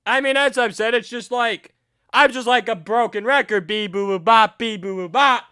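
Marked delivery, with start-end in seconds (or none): 3.7-5.4 beeping robot sound; robot noises. Shown as a demonstration. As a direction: chant like a broken robot. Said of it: "Sounds like a robot".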